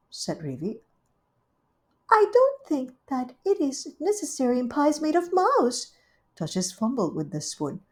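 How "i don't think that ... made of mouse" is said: Rivy's voice. Acted. Rivy welcoming Duchess, high gushing hostess. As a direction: greet her sweetly and grandly.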